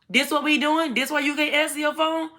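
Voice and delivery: high-pitched mock outrage, held high throughout; high, accusing retold voice; retold angry confrontation. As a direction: imitate an angry woman's high-pitched challenge. Retold angry baby mama confronting.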